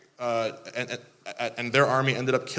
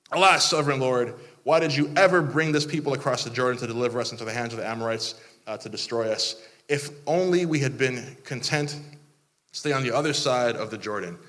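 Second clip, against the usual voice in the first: overdramatic prayer; faster than usual. Acted. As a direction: read it like a whining melodrama. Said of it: "you're being overdramatic".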